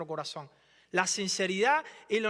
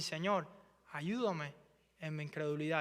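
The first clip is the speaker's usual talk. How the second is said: softer, lower humble plea; quiet prayer; 3 semitones lower, 5 dB quieter than usual. Acted. Believers praying softly to the Lord for help. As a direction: pray it under your breath.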